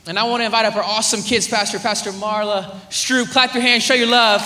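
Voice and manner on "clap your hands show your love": loud call to the crowd; rally them to clap; louder hype-up call. Real, not acted. Calling congregation to applaud.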